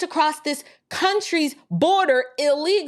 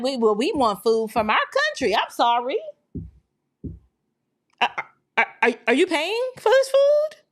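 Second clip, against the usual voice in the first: uppity. Retold or imitated. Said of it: "they uppity".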